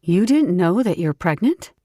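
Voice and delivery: teasing friend voice. Acted. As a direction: tease him playfully.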